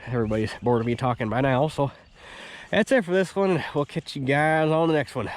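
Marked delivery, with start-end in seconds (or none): 2.7-5.1 nasal voice. Real, not acted. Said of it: "Sorry for my nasally voice".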